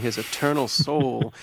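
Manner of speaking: put-on slow, drawn-out Southern accent. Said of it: "slip into a Southern accent".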